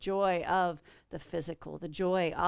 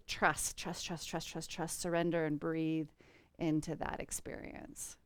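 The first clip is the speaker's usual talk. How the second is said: soft, much quieter, fading into breath; quiet meditative trust; 3 semitones lower, 5 dB quieter than usual. Real, not acted. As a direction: sink into it softly like a guided meditation. Guiding into surrender.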